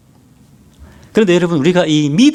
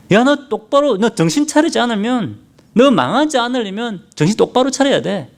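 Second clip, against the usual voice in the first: higher, pushy devil's warning; Satan's warning; 6 semitones higher than usual. Retold or imitated. Satan warning the believer to wise up, pushy and higher. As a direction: lean in like a tempter scolding. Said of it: "사탄이 그래요".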